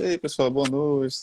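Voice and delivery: slow, mildly downcast speaker; downcast greeting. Shown as a demonstration. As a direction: greet the room half-heartedly, head hung.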